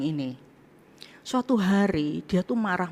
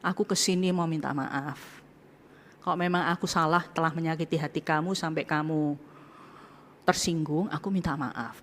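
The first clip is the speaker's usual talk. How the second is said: humble apology; 2 semitones lower, 6 dB quieter than usual. Retold or imitated. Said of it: "Saya bilang seperti ini".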